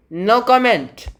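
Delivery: high, loud, drawn-out stonewalling; slowly and loudly refuse to answer; firm "no comment". Acted. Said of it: "That's a pretty good no comment".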